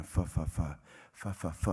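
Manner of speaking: stuck on the first sound, repeating fa; stutter, unable to get the word out; stammering. Retold or imitated. Telling the counsellor about his nan, a choked stammer. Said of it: "trying to say this one word over and over again".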